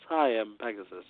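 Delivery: calmly voiced Pegasus. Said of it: "very calmly voice acted".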